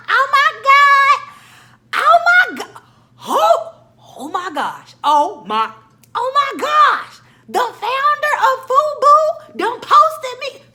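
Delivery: squealing high and loud, slow and drawn out; fangirling. Retold or imitated. Fan seeing the Fubu founder's post, ecstatic high squeal. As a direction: lose it completely over the post, shrieking with joy. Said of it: "I start fangirling".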